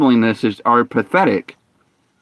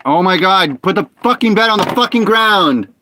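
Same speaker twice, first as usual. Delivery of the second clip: exasperated outburst; 5 semitones higher than usual. Real, not acted. Bed won't place in game.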